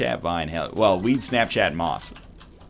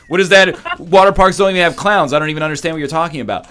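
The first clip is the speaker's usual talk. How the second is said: mock angry rant; 4 semitones higher, 5 dB louder than usual. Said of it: "he was so pissed".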